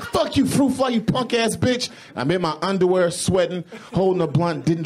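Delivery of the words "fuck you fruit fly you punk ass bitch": high, sing-song insult at a fruit fly; mock yelling at fly. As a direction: taunt the fly in a high cursing squeal. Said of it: "I stood up and like".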